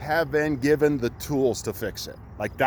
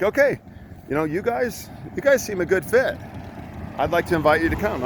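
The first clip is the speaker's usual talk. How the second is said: lady voice, higher pitched; high, bright quoted lady; 5 semitones higher than usual. Retold or imitated. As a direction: mimic the cheery lady on the phone, higher. Woman on phone quoted.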